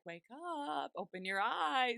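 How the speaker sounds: drawn-out mock wake-up call; lilting, slowed-down mock summons; coaxing wake-up call. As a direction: stretch it out as if rousing a sleeper. Acting Whispers rousing Riley.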